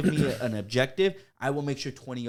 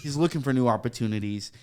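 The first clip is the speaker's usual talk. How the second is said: mock roast of a friend; mock teasing; 6 dB louder than usual. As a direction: ham up the insult to a friend. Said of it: "I'd be like".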